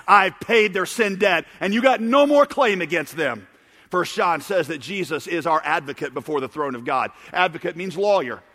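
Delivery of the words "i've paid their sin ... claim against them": raised, emphatic declaration; louder cry. Retold or imitated. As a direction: declare it firmly over the accusers. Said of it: "cries out with a louder voice".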